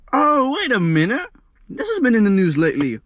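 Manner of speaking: light up as it clicks; sudden realization. Retold or imitated. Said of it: "And then I thought".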